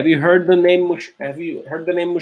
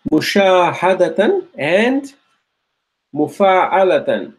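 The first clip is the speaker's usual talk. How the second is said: slow, Mushahadatan set beside mufa'alatan; slow model pronunciation; 2 semitones higher, 4 dB louder than usual. Shown as a demonstration. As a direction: say both forms slowly side by side. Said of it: "so you're able to see".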